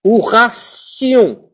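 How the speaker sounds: ration with tion said as sion, drawn out; slow demo. Shown as a demonstration. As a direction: stretch ration, s sound. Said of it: "on dit solution".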